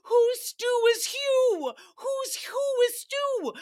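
very high, slow, squealing through laughter; giddy laughing. Real, not acted. Laughing hard at her own Stu joke, very high. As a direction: shriek it out cracking up.

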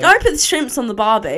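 put-on antipodean New Zealand accent; a joking go at a New Zealand accent. Shown as a demonstration. Showing off a New Zealand accent to protesting friends. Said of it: "say in a New Zealand accent".

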